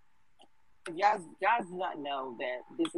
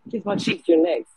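raised voice calling a name across the room; calling out louder; 7 dB louder than usual. Real, not acted. Host calling the next speaker, loud call-out. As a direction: call them up, louder the second time.

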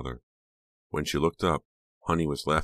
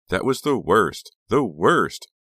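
loud high giddy delight; gleeful; 6 semitones higher, 8 dB louder, slower than usual. A narrator's reading. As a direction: relish the memory loudly. Gleeful recalling of prank.

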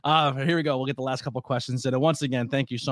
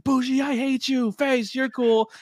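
much higher put-on voice; teasing sing-song, pitched up; mock-playful greeting; 12 semitones higher, slower than usual. Host teasing Bougie and praising Face, in a high voice. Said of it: "I was like".

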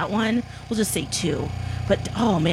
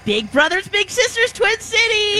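voice shaken by massage gun; 3 semitones lower than usual. Real, not acted. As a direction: talk while a massage gun buzzes the shoulder. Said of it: "So Alexis, say something".

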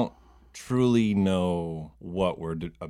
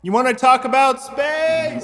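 much higher, a squeaky little character voice; 4 dB louder than usual. Acted. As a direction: squeak it out like a tiny stranger. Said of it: "What happened to Jake?".

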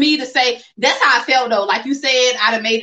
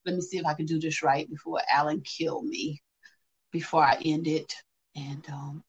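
slightly tipsy, softer; 7 semitones lower, 8 dB quieter than usual. Real, not acted. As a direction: talk like a little tipsy. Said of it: "I'm a little tipsy".

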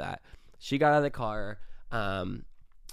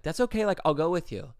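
higher, bright mock voice of the date; mimicking the date; 5 semitones higher, faster than usual. The date insisting she'll ride along, mock eager. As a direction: play the date offering happily.

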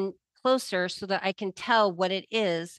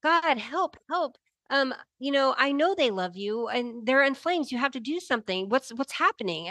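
higher-pitched, freaking-out plea to God; retold panicked plea; 5 semitones higher than usual. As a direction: plead for help as if panicking, retold. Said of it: "so I'm freaking out".

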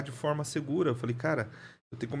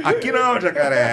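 high, loud and laughing; laughing brag to his friends, high and loud; laughing boast; 4 semitones higher, 7 dB louder than usual. Real, not acted.

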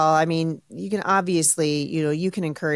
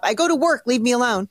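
higher-pitched, put-on protest; mock exasperated husband; 4 semitones higher, 3 dB louder than usual. Host voices a husband tired of nagging, mock exasperated. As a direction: imitate a nagged husband pushing back.

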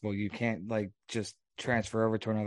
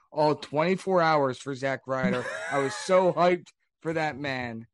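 mock hype. Mock-praising a short title run.

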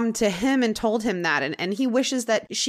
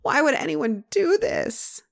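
mock voice breaking; 6 semitones higher than usual. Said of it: "his voice breaks and he says".

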